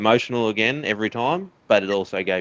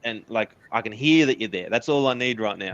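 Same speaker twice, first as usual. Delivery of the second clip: higher, pleading, retelling asking her to stop; retold tearful plea; 4 semitones higher than usual. Runner retelling how he begged his wife to just stay on the phone, pleading high. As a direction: voice lifted high as if close to tears again. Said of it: "I was like".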